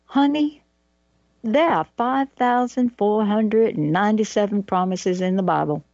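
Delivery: a hint of a Southern mother's drawl. Imitating her late Southern stepmom to the host, mild Southern drawl. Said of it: "with her Southern drawl".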